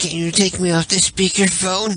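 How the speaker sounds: goofy implausible voice. Prank calling Rachel in a made-up voice: stupid implausible Saul voice. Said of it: "Next voice I'm going to do, I'm gonna do, um, Saul".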